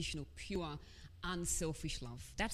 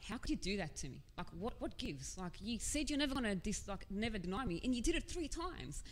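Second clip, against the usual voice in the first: imagined reprimand; 4 semitones higher than usual. Pretend. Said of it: "I would have expected to be reprimanded".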